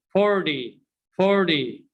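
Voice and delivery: forty said as fordy; American slang t. Shown as a demonstration. Teacher drilling learners, d sound in forty. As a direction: soften the t in forty to d. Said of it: "Repeat after me".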